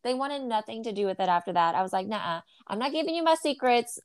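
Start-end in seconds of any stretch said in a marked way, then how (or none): 2.1-4.0 higher-pitched mock-stern refusal; playful refusal. Mom guarding recipe secrets from kids, playful refusal. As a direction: refuse teasingly, popping up high at the end.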